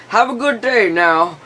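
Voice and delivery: a cop waving goodbye sweetly; mock cheery cop. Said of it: "drives off".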